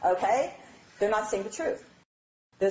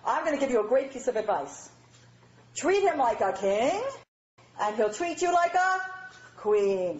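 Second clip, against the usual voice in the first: Uncle Saul advice; 2 semitones higher than usual. Retold or imitated. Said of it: "Uncle Saul says to the bride".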